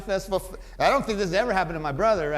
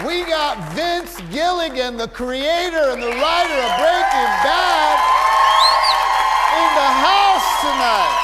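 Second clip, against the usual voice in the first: hyped emcee; 8 semitones higher, 9 dB louder than usual. Real, not acted. Host announcing tonight's guests to the crowd, hyped emcee. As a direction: build to a shouted send-off.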